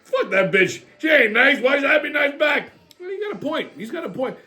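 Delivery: a hint of grumpy grandpa; Pops griping. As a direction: grumble back hard. Pops argues about Big Mama.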